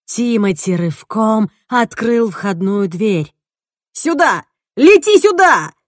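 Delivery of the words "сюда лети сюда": loud, high shouting; a loud, high call outdoors; calling over wind. Acted. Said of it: "перекрикивая ледяной ветер".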